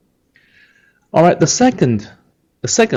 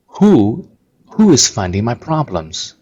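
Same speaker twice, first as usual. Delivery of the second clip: annoyed retort; 3 semitones higher, 3 dB louder than usual. Shown as a demonstration. Teacher demonstrating an annoyed Beijing retort, angry. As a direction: fire it back like someone is picking on you. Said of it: "It's very angry".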